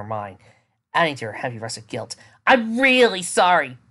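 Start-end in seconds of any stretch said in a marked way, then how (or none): 2.5-3.8 pleading apology. Acted. Guilty apology.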